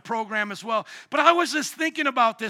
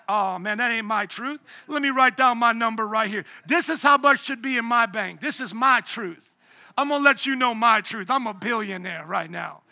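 mock self-deluded customer. Pastor mocks relativism by claiming fake money, smug and insistent. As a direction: play a man inventing his own bank balance. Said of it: "try that with the bank".

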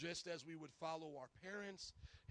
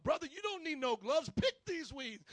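higher, louder barked drill-sergeant order; Brother T drill sergeant; 7 semitones higher, 9 dB louder than usual. Retold or imitated. Brother T refusing gloves, barked like a drill sergeant. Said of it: "He was a drill sergeant".

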